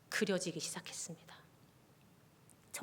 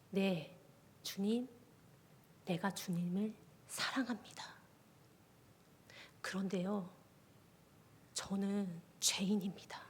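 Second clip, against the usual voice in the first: hushed, softer confession, half whispered at the end; small voice; 5 dB quieter than usual. Retold or imitated. Confessing love to the Lord in a small voice, hushed. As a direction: answer the Lord in a small, humble voice. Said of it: "아주 작은 목소리로 이야기했어요".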